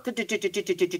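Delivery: soft, quick run of do-do-do; rapid-fire imitation. Shown as a demonstration. Reader describing how all the story's action happens, rapid-fire imitation. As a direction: patter out a string of quiet do's. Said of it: "all the action happens super".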